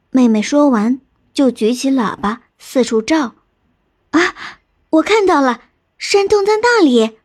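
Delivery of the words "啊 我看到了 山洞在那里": high-pitched, thrilled cry; excited discovery. Acted. Little sister spotting the cave for her sister, excited. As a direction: call it out as you spot it.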